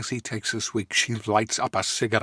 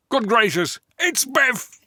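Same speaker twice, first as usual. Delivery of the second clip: high, louder gasp of alarm; dramatic reveal; 12 semitones higher, 5 dB louder than usual. A narrator's reading. Narrator reveals Biff yanking Marty out, high alarmed announcement.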